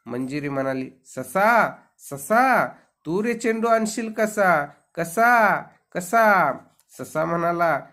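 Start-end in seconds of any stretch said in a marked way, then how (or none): 1.1-6.5 high, loud, incredulous exclamations; amazed disbelief. A narrator's reading. Princess doubting a rabbit can fetch her ball, amazed. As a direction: question it in high-pitched, swooping disbelief.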